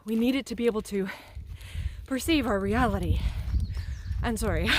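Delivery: winded from climbing uphill; out of breath. Real, not acted. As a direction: talk while still catching breath. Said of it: "I'm out of breath because".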